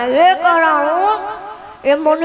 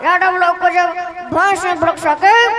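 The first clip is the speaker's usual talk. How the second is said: lightly voiced rustic politician; a hint of a folksy rally speech; Lalu impression. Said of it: "Lalu जी का".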